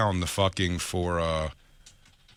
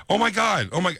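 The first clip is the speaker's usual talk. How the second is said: high mock-horrified outburst; imitated panic; 10 semitones higher, 3 dB louder than usual. Comic voicing a woman shocked by the news, high mock panic. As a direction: freak out as her, pitched way up.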